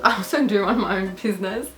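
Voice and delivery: laughing through the corrected line; laughing retake. Real, not acted. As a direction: restart it with a laugh, own accent back. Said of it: "I don't know what accent that was".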